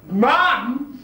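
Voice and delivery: loud, high exclamation; startled cry at seeing a parent; shocked recognition. Acted. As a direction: blurt it out in astonishment. Recognises mother's face in vision.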